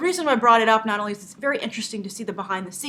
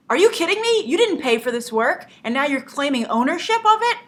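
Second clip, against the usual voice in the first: high-pitched, incredulous outburst on the opening; mock furious; 5 semitones higher than usual. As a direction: act out his indignant disbelief. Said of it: "he gets really furious".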